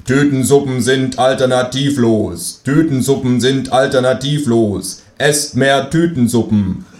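slow, monotone slogan chant; propaganda robot. Pretend. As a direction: drone it like state propaganda.

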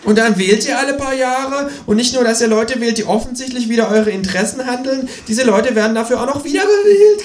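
croaking kangaroo. A narrator's reading. Kangaroo croaks its rant at the humans. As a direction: squawk it out like a cheeky kangaroo. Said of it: "krächzt das Känguru".

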